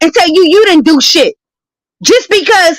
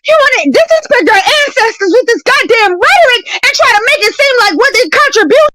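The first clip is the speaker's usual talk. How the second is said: angry rant; 6 semitones higher than usual. Real, not acted. Heated rant about ancestors.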